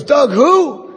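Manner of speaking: a high, surprised "who?"; the sergeant has never heard the name, pitched well up; puzzled sergeant. Retold or imitated. Sergeant doesn't recognize him.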